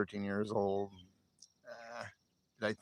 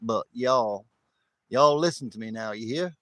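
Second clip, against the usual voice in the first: folksy West Texas "y'all listen" impersonation; West Texas accent; 3 dB louder than usual. Acted. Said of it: "I'll do a West Texas stacker accent".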